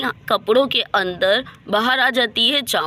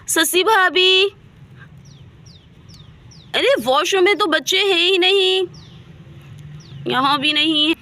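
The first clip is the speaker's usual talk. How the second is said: put-on higher, anxious calls for the children; calling out in alarm; 4 semitones higher than usual. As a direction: call through the house, rising with worry. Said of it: "क्यों चिल्ला रही हो?".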